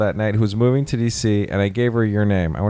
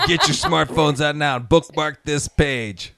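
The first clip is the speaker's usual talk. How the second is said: bossy preacher; 4 semitones higher, slower than usual. Retold or imitated. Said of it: "I said".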